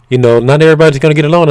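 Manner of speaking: quick mocking imitation. Quoting her, fast.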